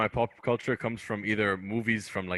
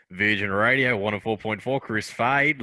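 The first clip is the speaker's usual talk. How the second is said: Chris Fade radio intro. Retold or imitated. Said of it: "his opening line will always".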